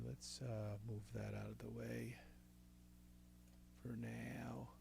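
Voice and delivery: breathy whisper under his breath; whispered aside. Real, not acted. Whispering to himself while editing tracks, hushed. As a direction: say it half to himself, barely voiced.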